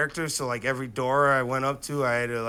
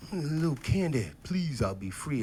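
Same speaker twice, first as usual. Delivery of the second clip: the begging line; 7 dB quieter than usual. Shown as a demonstration. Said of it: "I said the line".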